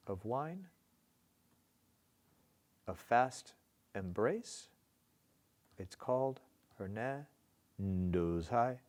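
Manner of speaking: "I know", "a dark": one iamb at a time with long gaps; marking the feet. Shown as a demonstration. Teacher marking those feet, halting iambic reading. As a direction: pause after each foot, second syllable stressed as in "a glass", "of wine". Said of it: "go in and mark those feet".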